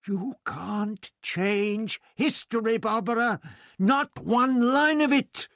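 high, slow, insistent voice; the bewildered doctor warns Barbara, drawn out and high; insistent old doctor. Acted. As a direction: plead firmly, spreading his hands.

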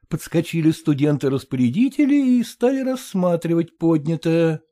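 ordinary delivery, nothing marked

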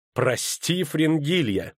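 echoes his words back, pitch climbing in scorn; sneering echo of an apology; mocking furious echo. A narrator's reading. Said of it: "яростно кривя губы".

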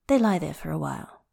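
plain reading voice

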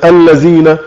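الذين said alzeena with z; Egyptian z for dh. Shown as a demonstration. Teacher giving the dialect example again, z sound. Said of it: "على لهجتنا المصرية".

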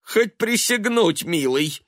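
high, loud exasperated retort; irritated. A narrator's reading. Mother snapping irritably at her son. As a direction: snap it back, fed up. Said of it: "сказала она раздражённо".

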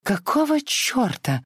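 high, slow startled cry; a shocked woman cuts in with a high cry; startled outburst. A narrator's reading. Scarlett bursts out in alarm.

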